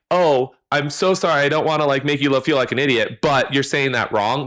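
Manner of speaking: put-on sympathy; sympathetic. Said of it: "Like, that's sympathetic".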